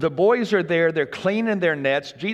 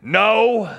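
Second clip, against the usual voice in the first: embarrassed no; 6 semitones higher, 5 dB louder than usual. Retold or imitated. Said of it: "and their response was".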